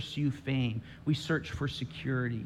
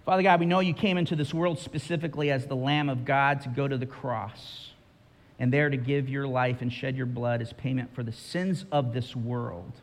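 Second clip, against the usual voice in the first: closing prayer. Acted. Leads a prayer.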